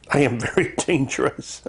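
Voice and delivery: lightly voiced little pirate. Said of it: "He's a little pirate".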